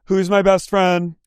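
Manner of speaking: high, slow bewildered question; mock lost voice. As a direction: play her dazed and lost. Imitating Lisa's lost question.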